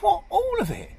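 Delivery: "Where's the donut?" pitched high like a baffled crab. Acted. Crab asks his friend where the donut went, voiced high.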